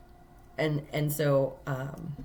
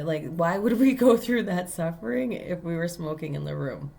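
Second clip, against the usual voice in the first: raised pitch, building insistence; indignant challenge; 2 semitones higher than usual. Retold or imitated. Guest questioning the hotel manager's accusation, indignant. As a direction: plead your case, indignantly piling up reasons.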